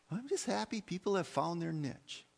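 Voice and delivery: lightly mocked polite approval; patronizing niceness. Churchgoer approving of people's little niches, patronizing. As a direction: imitate someone mildly humoring others. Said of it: "heard people talk like that".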